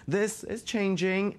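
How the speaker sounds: "This" punched high, slow; dramatic stress on this. Acted. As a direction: lean hard on "This is changing". Dramatic promo build.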